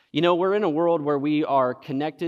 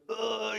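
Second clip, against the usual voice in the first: imitated groan; 9 semitones higher, 6 dB quieter than usual. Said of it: "he's groaning".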